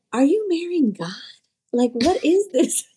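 high, incredulous mom mocking her daughter. Mom scoffing at daughter's purity ring, high and incredulous.

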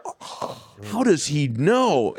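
airy gasp, then high, drawn-out question; mock astonishment. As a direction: imitate two men amazed at being caught. Mimics the two caught Brits whispering, amazed.

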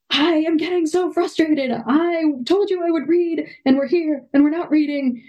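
put-on high, strained frustrated outburst at the kids. Mom reenacts snapping at kids at bedtime, high and frustrated. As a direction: voice jumps up, fed up and exasperated. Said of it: "And I was just like".

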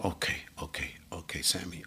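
calm yourself down under your breath; self-reassurance. Retold or imitated. Nervous drummer calming himself before meeting Miles. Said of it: "And I said".

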